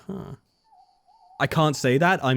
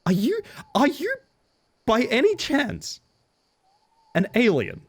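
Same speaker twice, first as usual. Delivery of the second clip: high playful voice; 10 semitones higher than usual. Real, not acted. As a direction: ask it in a high sing-song. Playful mock question to character.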